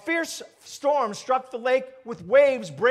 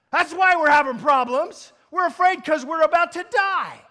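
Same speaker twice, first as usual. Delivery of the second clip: loud, high-pitched frantic explaining; panicked protest; 6 semitones higher, 6 dB louder than usual. Acted. Disciples explaining their fear to Jesus, loud panicked protest. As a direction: argue back in raised, frightened voice.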